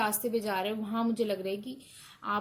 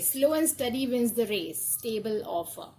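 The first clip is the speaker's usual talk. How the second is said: very slow, louder, word-by-word reading of the card text; 3 semitones higher, 5 dB louder, much slower than usual. Acted. Tarot reader reading the card's message to the viewer, slow and deliberate. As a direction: read it out like an oracle pronouncing.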